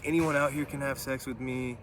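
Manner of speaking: high-pitched mock yell at normal volume; imitated yelling. A vulgar lady to anyone out there, half-hearted mock yell. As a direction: imitate someone calling out to the whole street. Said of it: "yelling this".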